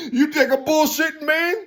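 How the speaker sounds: high-pitched laughing challenge. Real, not acted. Laughing aside to the audience.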